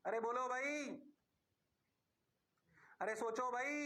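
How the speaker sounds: usual speaking voice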